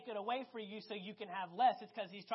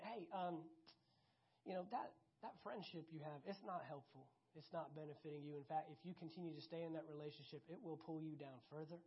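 softer, lower voice of God gently warning; a hushed, lower, caring Lord's voice; gentle Lord; 6 semitones lower, 13 dB quieter than usual. Acted. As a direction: lower and softer, like God quietly correcting you.

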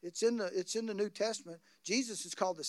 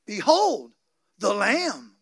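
louder proclamation, each word weighed; crying out; 9 dB louder, much slower than usual. Retold or imitated. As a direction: proclaim it like a prophet. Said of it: "you hear this man cry out".

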